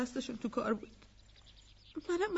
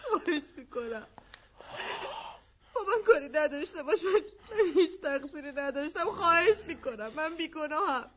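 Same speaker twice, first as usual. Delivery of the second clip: crying, louder plea; tearful begging; 3 dB louder than usual. Acted. Woman begging the gunman to spare her, crying. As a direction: sob out the plea.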